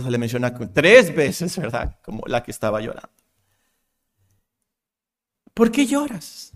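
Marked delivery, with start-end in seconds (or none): 5.5-6.5 tender, higher-pitched question; raised pitch, compassionate and unforced. Acted. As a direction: ask it gently, full of mercy. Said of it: "le hizo esta pregunta con mucha compasión".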